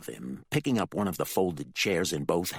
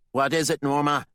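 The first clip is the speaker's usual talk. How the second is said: louder impatient reply; the Reverend, impatient; 8 semitones higher, 6 dB louder than usual. Acted. The Reverend answers Norma, impatient. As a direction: brush her off.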